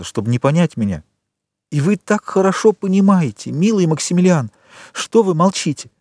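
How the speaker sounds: lightly voiced desperate girl; pleading young woman. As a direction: beg him to understand. Valentine pleads.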